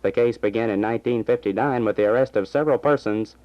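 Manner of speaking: brisk radio news delivery; news read. Acted. Small-town radio announcer reading the afternoon news. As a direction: read the bulletins like a station announcer.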